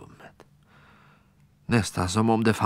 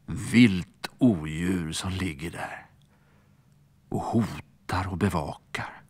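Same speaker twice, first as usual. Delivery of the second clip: spooky whisper; 2 semitones lower than usual. A narrator's reading. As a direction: whisper about the monster under the bed. Monster under bed, spooky.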